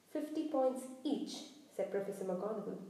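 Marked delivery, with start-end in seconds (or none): 0.1-1.3 slow, higher, stern pronouncement; heavy-breathing sternness. Acted. Professor passing sentence on each student, slow and stern. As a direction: pronounce the penalty slowly, word by word. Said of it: "breathing heavily through her long pointed nose".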